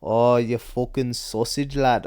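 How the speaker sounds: slow, put-on fighter impression; mock insult in a lightly imitated voice; Paddy. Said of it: "if it's Paddy, he's like".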